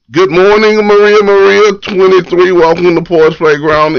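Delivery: sing-song host greeting; bright welcome. Real, not acted.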